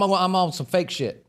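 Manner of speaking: slow, flavored delivery; switched-up saucy voice. Real, not acted. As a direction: add some sassy flavor to it. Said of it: "you switch your whole voice up".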